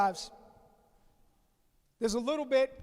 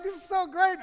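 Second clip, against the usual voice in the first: excited; 6 semitones higher than usual. Retold or imitated. Retelling his delight petting sheep.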